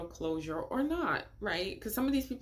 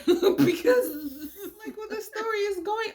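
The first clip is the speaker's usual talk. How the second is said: nervous laugh; 10 semitones higher, 3 dB louder than usual. Real, not acted. Laughing at where story goes.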